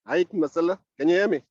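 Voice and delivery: phone call, checking the line; over the phone. Real, not acted. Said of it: "I'm using my phone right now".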